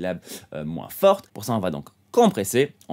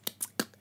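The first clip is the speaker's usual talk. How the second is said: clicking tsk sounds; 13 dB quieter than usual. Shown as a demonstration. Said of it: "donc vraiment des tsk".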